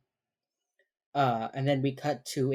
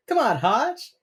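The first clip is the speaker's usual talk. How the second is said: teasing Jacob; 10 semitones higher, 5 dB louder, slower than usual. Retold or imitated. Voicing Jacob teasing Hotch.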